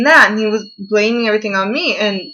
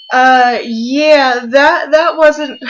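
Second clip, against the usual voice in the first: real tears breaking through, louder and higher; crying; 4 semitones higher, 5 dB louder, much slower than usual. Real, not acted. Telling viewers about the breakup, crying out loud. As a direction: voice cracking as she fights off a sob.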